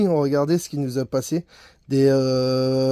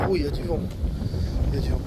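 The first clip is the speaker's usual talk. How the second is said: wind on mic; much faster than usual. Real, not acted. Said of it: "désolé pour le vent".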